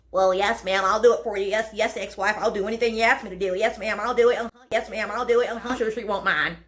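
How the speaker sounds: rattled-off, servile yes-ma'am routine; mock compliance. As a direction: agree over and over in a mocking run. Mimics eager compliance to ex-wife.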